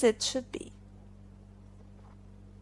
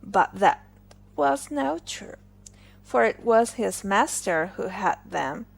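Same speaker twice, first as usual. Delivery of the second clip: ordinary delivery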